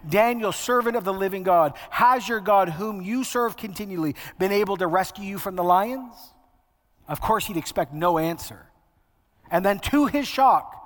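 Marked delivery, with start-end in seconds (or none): 0.1-6.3 mildly anguished call, slightly raised pitch. Acted. King calling to Daniel at the lions' den, mildly anguished. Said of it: "in an anguished voice".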